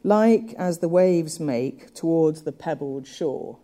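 slow, stressing the trochee at the start; scanned reading. Shown as a demonstration. Lecturer reading the line to show its trochee, slow and stressed. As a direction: read the line slowly, leaning on the reversed beat. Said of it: "which gives us the rhythm".

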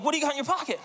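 high, prying question; imitating the woman's suspicious grilling. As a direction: grill him about his pocket. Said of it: "So, like".

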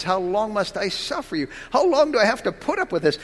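Christ's frustration with his faithless disciples, voiced with exasperation; frustrated. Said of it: "the frustration almost".

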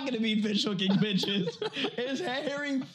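high voice, laughing through the quote; laughing retelling. Retold or imitated. Repeating his friend's joke to the hosts, laughing. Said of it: "This man said".

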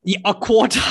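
amused scoff breaking into laughter; incredulous laughing. Real, not acted. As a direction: laugh it out in disbelief. Laughs in disbelief at co-host's claim.

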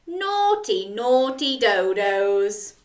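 wag a finger, playfully; mock scolding. Shown as a demonstration. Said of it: "Can you say".

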